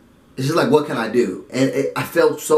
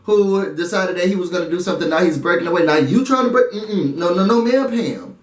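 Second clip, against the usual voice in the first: a bit higher, insistent mock plea; Bailey's point; 4 semitones higher than usual. Bailey telling Swaggy they stay together, insistent. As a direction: voice Bailey refusing to let go. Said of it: "I also saw Bae's point".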